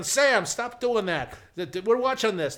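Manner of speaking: high, loud, drawn-out mock outrage; retold screaming protest. Elderly viewers protesting the channel change, mock screaming. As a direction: imitate a roomful of indignant viewers yelling. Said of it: "they all start screaming".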